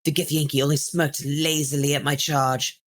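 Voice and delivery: storyteller reading a pulp adventure; dramatic book reading. Acted. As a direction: read it like an old serial. Reads in-game book aloud.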